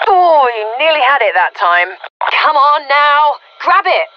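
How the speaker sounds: urgent cheering on. Acted. Onlooker urging a player to grab it, excited. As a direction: egg them on through a near miss.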